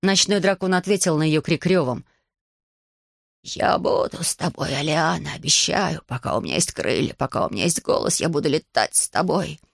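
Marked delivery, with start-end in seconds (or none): 3.4-9.6 calm dragon. Acted. Dragon Kaba promises.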